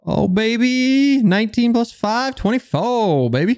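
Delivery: excited brag. Real, not acted. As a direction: crow about the big roll. Player celebrates big dice roll.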